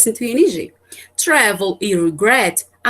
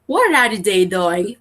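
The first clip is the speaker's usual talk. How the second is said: slow example read; 2 semitones lower, much slower than usual. Shown as a demonstration. Teacher reads English example.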